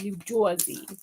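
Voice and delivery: New Jersey said as "Joizy"; hammed-up New Jersey accent on the name; stereotypical New Jersey accent. Shown as a demonstration. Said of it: "very stereotypical New Jersey accent".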